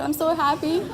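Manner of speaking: teary laugh on the words; laughing through tears. Real, not acted. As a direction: laugh it out, overwhelmed. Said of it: "I'm sorry, I'm very emotional".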